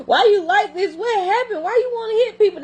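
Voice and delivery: high mock-puzzled voice; high teasing voice. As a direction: tease the kid in a high voice. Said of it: "I be like".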